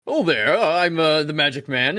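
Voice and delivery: lightly voiced showman with a hint of a weird accent; Magic Man voice. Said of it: "all my people have to sound like this and have a weird accent".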